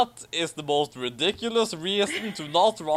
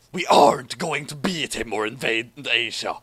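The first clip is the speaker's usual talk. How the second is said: lightly voiced schemer. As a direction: plot it like a smug villain. Villain Zaber's plotting line.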